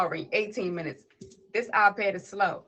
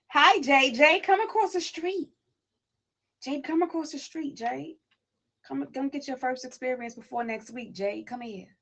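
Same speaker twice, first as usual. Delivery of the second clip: high, loud call to someone far off; calling across the street; 6 semitones higher, 4 dB louder than usual. Real, not acted. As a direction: hail her from across the road.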